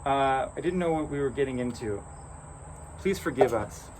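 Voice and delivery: nervous stammering apology. Acted. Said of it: "Balor's son just stammers".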